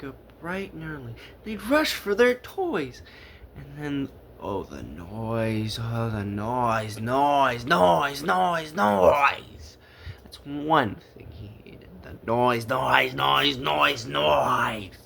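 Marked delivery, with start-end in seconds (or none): 4.4-9.8 slow start, rising louder to a shout; building noise rant. A narrator's reading. 12.0-15.0 louder, hammering each noise; exasperated noise. A narrator's reading.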